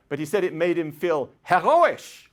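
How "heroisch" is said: heroisch pronounced "heh-RO-ish", higher and louder; German word heroisch. Retold or imitated. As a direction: proclaim heroisch, stressing the middle syllable RO. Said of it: "he said it in German".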